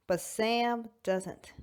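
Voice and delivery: slow breathy whisper. Acted. Confiding to the audience that Sam doesn't, whispered. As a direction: let it drop to a slow whisper. Dramatic aside about Sam.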